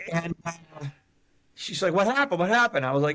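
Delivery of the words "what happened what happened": acted trembling, shaky, high-pitched voice. Speaker retells a woman at her window asking what happened, imitating a shaking woman. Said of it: "all shaking and everything".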